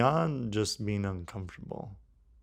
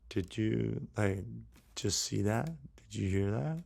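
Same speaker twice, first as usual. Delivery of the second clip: hushed, halting questions, softer; understated dumbfounded murmur; unsure, stunned disciples; 6 dB quieter than usual. Acted. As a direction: ask haltingly, as if unsure what to say. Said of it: "not sure what to say".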